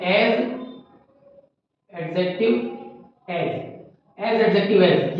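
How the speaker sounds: very slow, each word separate; teacher dictating a formula very slowly; slow spelled-out pattern. Shown as a demonstration. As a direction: lay out the pattern for copying. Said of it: "teacher shows a pattern".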